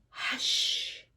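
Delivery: breathy whispered shush; whispered hush. A narrator's reading. Old lady whispering to the room to hush.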